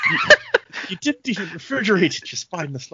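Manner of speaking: a hint of a huffy character; mock indignant. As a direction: scold someone spineless. Quote again.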